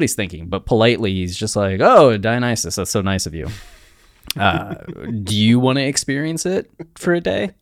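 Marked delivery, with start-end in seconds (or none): 1.8-7.5 lightly sugary politeness; faux-polite king; polite mock offer. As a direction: offer it sweetly, a hint of a trap. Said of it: "So politely".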